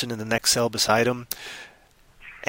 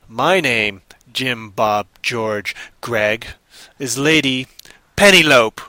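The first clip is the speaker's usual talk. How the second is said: voice from beyond the grave; 4 dB louder, much slower than usual. Acted. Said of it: "in a voice that sounded crackly and crinkly from beyond the grave".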